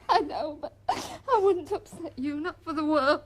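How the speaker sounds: tearful. Acted. Wife crying after apology.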